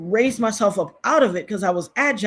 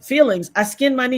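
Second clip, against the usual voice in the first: higher and louder, hammed-up complaint; mock whiny kid; 5 semitones higher, 4 dB louder than usual. Reading a viewer's comment back, hammed-up whine. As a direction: play it like a kid showing off a scraped knee. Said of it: "Right Sound said".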